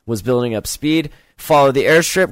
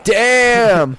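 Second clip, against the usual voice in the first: surprised exclaim; 6 semitones higher than usual. Retold or imitated. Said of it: "being like".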